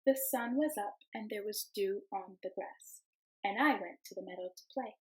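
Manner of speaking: gentle storybook read-aloud; storybook voice for the class; reading to children. Acted. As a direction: read it like story time for little kids. Teacher reads picture book aloud.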